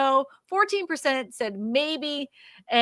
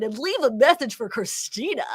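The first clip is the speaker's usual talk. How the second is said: laughing. Shown as a demonstration. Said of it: "infomercial voice".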